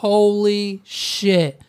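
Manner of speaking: slow, drawn-out mock amazement; hushed-wonder parody, stretched out; awestruck audience member. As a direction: imitate a spectator blown away, very slowly. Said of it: "Someone was in the audience, like".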